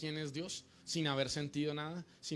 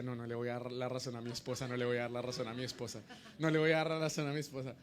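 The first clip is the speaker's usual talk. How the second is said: imitated obstinate husband, rising in force; stubborn refusal; 2 semitones lower, faster than usual. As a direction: repeat it insistently, faster each time, as a retold protest. Retold husband stubbornly resisting the call.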